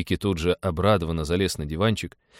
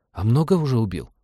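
put-on higher-pitched child's question; eager little boy; 4 semitones higher than usual. A narrator's reading. Boy asks pilot his kill count, eager high voice. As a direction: ask like a fascinated small boy.

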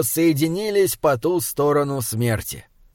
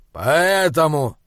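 laconic; slower than usual. Acted. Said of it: "лаконично ответил великан".

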